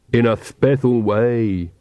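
slow, wistful. Acted. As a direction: say it slowly with longing. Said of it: "said Igor wistfully".

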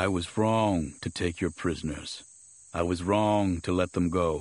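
low, subdued recital; submissive Mace. Acted. Mace recants before Vaster, low and submissive. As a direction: repeat the confession as ordered, beaten.

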